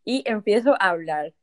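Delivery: talking around a pencil; pencil in mouth. Shown as a demonstration. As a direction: speak with a pencil between teeth. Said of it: "Así que me pongo el lápiz".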